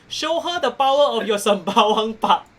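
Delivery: mild mock yell; audience yell. Game master voicing the audience egging on a wrestler, mild yell. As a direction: call it out like a crowd, only half yelling. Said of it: "the audience yells".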